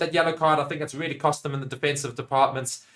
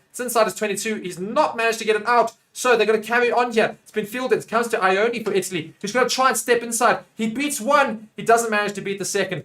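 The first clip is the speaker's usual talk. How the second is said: raised-pitch live rugby commentary; animated match call; lively play-by-play; 6 semitones higher than usual. Real, not acted. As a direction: follow the ball phase by phase, keenly.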